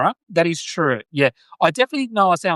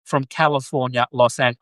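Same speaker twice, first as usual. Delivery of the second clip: put-on Californian surfer accent. Australian practising to sound like a surfer, attempted Californian accent. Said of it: "I wanna sound like".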